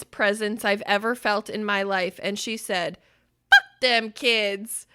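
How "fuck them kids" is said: slow, louder, fierce and mean. Retold or imitated. Daughter fiercely dismissing the maybe babies, slow and mean. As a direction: deliver it like a tiny fierce matriarch. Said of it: "the most powerful, vicious, fierce".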